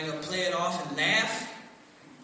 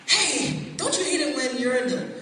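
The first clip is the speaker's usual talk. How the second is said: loud, higher, hammed-up chummy rant; conspiratorial bait; 5 semitones higher, 7 dB louder than usual. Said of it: "I'd jump in".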